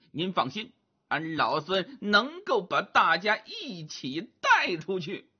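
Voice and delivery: lightly voiced Monkey King pleading his case; Sun Wukong, reassuring. Wukong promises his master to get everyone out, reassuring.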